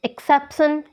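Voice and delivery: "exception" with the force on "cep"; second-syllable stress. Shown as a demonstration. Teacher giving learners an example, "exception" stressed on "cep". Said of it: "इसमें second syllable पे है".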